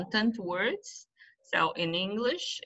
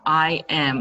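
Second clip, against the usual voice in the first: loud, separate "am" in full; stressed linking verb; 8 dB louder than usual. Shown as a demonstration. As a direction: punch "am" as its own word. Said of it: "Or the linking even words".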